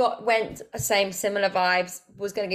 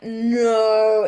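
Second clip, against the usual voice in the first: flat refusal; 4 semitones higher, 10 dB louder than usual. Retold or imitated.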